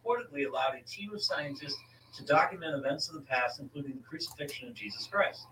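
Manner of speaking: article read out to a co-host; reading aloud. Real, not acted. Host tells co-host who built the chronovisor, reading aloud. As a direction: read it from the page, steady and informative.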